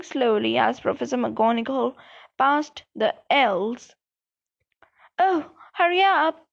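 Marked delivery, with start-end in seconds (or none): 5.2-6.5 whiny moan, pitched up. Acted. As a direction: moan it impatiently. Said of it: "Ron moaned".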